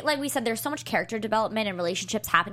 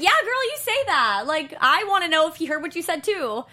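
sassy quote; 6 semitones higher, 4 dB louder than usual. Retold or imitated. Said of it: "I was like, I was like".

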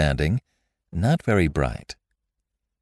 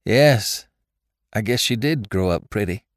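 slightly trembling, higher-pitched answer; 4 semitones higher than usual. A narrator's reading. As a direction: agree haltingly, a touch of a tremble. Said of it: "in a trembling voice".

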